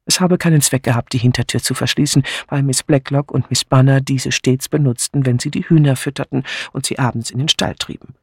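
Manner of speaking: steady reading voice, even pace; story narration. A narrator's reading. Narrator recounting the maid's statement, calm reading. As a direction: read it like a crime novel narrator.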